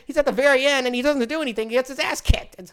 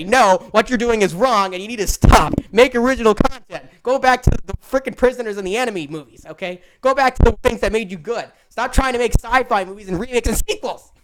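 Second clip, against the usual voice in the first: stern lecture; 3 dB louder than usual. Retold or imitated. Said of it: "I'm one of those people that say".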